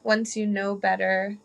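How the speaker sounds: slow quote. Retold or imitated. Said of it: "there's a saying".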